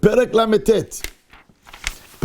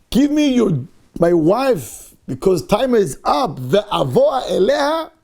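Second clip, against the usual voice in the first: slow, blunt mock demand that swells into a shout at the end; crude blunt demand; slower than usual. Rabbi mimics Yaakov's crude demand to Lavan, a slow blunt shout. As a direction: bark out the demand for the wife the way an animal would. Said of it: "it's not a clean language".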